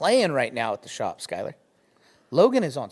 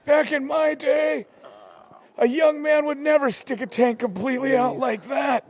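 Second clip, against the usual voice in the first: high, loud scolding elder; imperious disapproving aunt; 10 semitones higher, 4 dB louder, slower than usual. Pretend. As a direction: scold the youth like a stern old aunt. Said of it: "Such disrespectful youngins".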